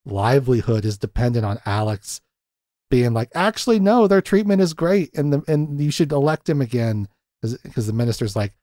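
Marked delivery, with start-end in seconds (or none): 3.3-7.1 higher, lightly put-on cheerful voice; mock endorsement. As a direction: pretend to vouch for them. Voices Alex publicly praising the government.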